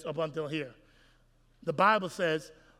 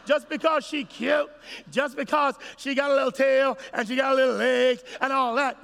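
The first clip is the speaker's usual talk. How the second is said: raised, high mocking sermon voice; emphatic preaching; 4 semitones higher, 5 dB louder than usual. Real, not acted. Preacher chiding the men, loud and high. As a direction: press the point loud and high.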